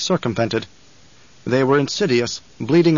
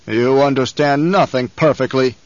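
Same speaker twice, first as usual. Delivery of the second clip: growling. Acted. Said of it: "the Baron growled".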